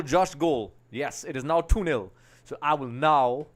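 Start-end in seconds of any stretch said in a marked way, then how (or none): 2.4-3.5 slow, playful cowboy American drawl; cowboy American accent. Pretend. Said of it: "I'm doing a cowboy American accent".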